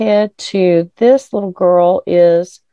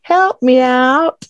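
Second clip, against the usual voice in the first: imitating reversed speech; 8 semitones higher, 3 dB louder, slower than usual. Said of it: "And he's like".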